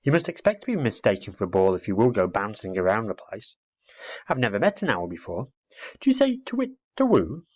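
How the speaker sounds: a lightly voiced little girl, lively and curious; little girl quizzing the owl, lightly voiced; chatty little girl. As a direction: chatter like a bossy, curious schoolgirl. Girl's voice in the story.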